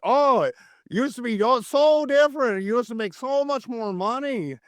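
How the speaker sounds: light Wisconsin accent, imitating locals; a hint of a Wisconsin accent. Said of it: "I don't mean to do Wisconsin accents".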